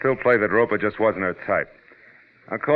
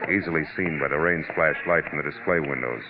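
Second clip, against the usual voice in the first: hard-boiled narration; 2 semitones lower than usual. Acted. Detective recounting his evening drive, in measured voice-over. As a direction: tell it like a weary private eye looking back.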